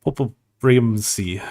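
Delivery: slow, careful German "Popelbremse"; German pronunciation. Shown as a demonstration. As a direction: spell out "Popelbremse" slowly in German. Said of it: "my ability to speak in a German accent is fucking ass".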